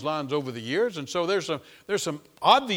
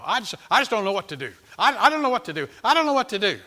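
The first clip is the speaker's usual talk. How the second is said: loud, high fretting; mock despairing whine; 4 semitones higher, 6 dB louder than usual. A worried believer complaining about kid and job, loud and high. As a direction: fret it over and over. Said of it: "repeated complaint".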